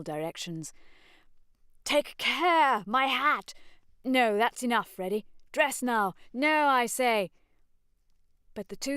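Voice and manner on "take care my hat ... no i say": high, loud alarmed protest; flustered shouted protest; protesting cries. Acted. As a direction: call after them to stop. Beebe protesting the clothes.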